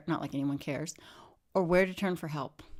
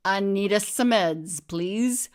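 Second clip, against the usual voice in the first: calling for the doctor; 2 semitones higher, 6 dB louder, slower than usual. A narrator's reading. Asking at the desk, story.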